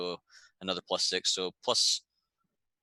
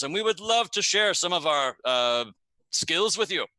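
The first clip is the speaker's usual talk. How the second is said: put-on poor Garundi accent; 4 semitones higher than usual. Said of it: "In a poor Garundi accent".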